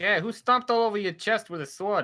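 wavering, put-on Brooklyn accent. Voicing a character in a group roleplay scene, in a Brooklyn accent. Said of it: "I can't tell if this is a Brooklyn accent anymore".

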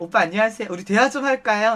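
ordinary delivery

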